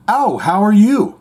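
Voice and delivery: mock polite British hello; a rock guitarist. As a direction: greet someone as an imitated English star. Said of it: "He says".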